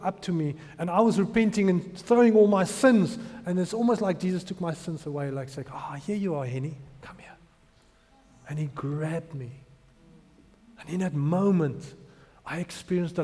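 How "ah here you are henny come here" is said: softly voiced, loving call; tender welcome. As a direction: welcome a lost child home, softly. Retold Jesus welcoming him tenderly.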